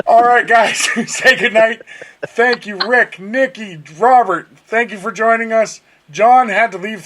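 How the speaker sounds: high, loud, cheerful goodbye; excited sign-off. Real, not acted. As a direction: wrap up the show with energy. Upbeat show sign-off to listeners.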